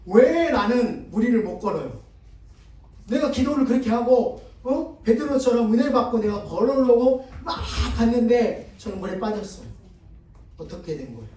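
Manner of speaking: lightly voiced huffy complaint; mild mock indignation. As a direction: play the fuming young man, half-hearted. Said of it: "씩씩거리면서 이야기를 하는 거". (물에 빠진 청년이 목사님께 씩씩거리며 따지는 말투)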